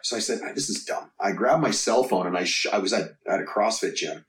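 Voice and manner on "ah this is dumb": a scoffing whisper; whispered dismissal. Retold or imitated. Trainer scoffing at bad YouTube videos, whispered. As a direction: breathe it out, dismissive.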